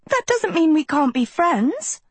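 high-pitched call without much added volume; high, pleading call through a door. A narrator's reading. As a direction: call after someone walking away. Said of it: "Sophie called".

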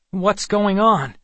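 high, loud, drawn-out question; bewildered demand. A narrator's reading. Boy with erased memory questioning strangers, bewildered demand. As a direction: demand answers in rising distress.

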